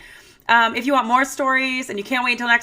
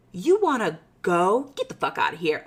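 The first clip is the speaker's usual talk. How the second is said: mock tough challenge; 3 semitones lower than usual.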